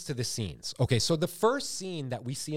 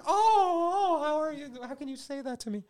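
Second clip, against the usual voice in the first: hurt father; 12 semitones higher, 3 dB louder than usual. Retold or imitated. Father hurt by his daughter, high crying wail. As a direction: sob it out, wounded and high. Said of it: "he's like".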